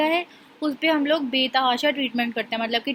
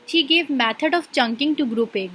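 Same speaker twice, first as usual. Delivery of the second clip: reading a definition aloud; 3 dB louder, much slower than usual. Shown as a demonstration. Teacher reads out example scenario.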